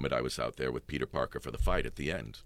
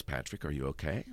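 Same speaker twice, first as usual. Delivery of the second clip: a mild, steady calm, a touch softer; 5 dB quieter than usual. Retold or imitated. Stage manager phoning the locked-in actor, calm and steady. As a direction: imitate the stage manager's unruffled concern, quietly. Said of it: "She says very calmly".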